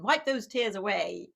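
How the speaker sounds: wipe those tears away said as a firm, scolding order; a stern father telling his son to stop crying; stern dad. Retold or imitated. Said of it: "sort of a punishing response".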